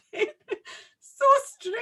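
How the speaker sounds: hammed-up ancient Scottish fairy; ninety-five-year-old fairy, amazed at baking, in a Scottish accent. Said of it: "That was my fairy".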